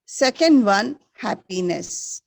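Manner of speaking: teacher calling out the answer; loud recap. Shown as a demonstration. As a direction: announce it clearly to the class. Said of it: "Once again, repeat".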